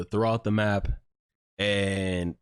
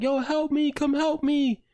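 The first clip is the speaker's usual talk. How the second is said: high-pitched mock cry for help; screamed plea, acted out at moderate volume; retold scream; slower than usual. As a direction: imitate someone yelling for rescue, pitched way up. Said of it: "he was screaming".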